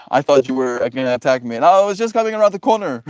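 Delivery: rising and quickening, defensive; flustered fast excuse. Acted. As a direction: blurt it out defensively. Acted defensive reply, fast.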